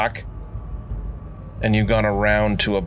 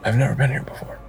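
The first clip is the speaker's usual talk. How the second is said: lightly voiced young woman, a bit higher; a hint of a character voice, slightly raised; Gretel voice; 4 semitones higher, much faster than usual. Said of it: "Oh, I was being Gretel there".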